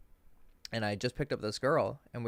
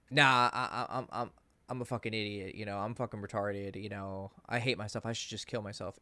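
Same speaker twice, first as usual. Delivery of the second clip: imitating low-key self-deprecation; self-deprecating; 4 semitones lower than usual. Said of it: "be really self-deprecating".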